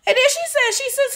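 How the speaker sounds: incredulous laugh, voice high; laughing in disbelief. Real, not acted. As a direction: laugh it off in shock.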